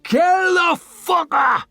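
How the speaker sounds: high, slow furious yell; bloodthirsty fighter snarling; snarled. Acted. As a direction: snarl it with pure hate. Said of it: "snarled Whitewater Jin".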